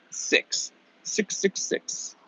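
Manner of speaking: spooky hushed "Six, six, six"; creepy whisper. Pretend. Streamer reading a chat number to viewers, creepy whisper. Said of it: "a creepy number to some people".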